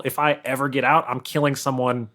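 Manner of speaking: ordinary talk, nothing marked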